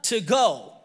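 imitating wife. Wife answers willing husband, mock insistent. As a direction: correct the husband, leaning on WANT. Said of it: "She said".

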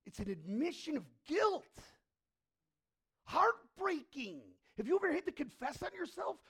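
loud, high-pitched sermon climax; full-force preaching. Acted. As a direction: preach it out hard to the crowd.

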